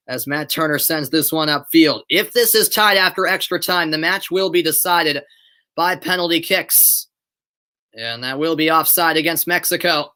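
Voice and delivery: measured live soccer commentary; sports commentator's on-air delivery; play-by-play. Acted. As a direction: call the match as it unfolds. Calls the match live.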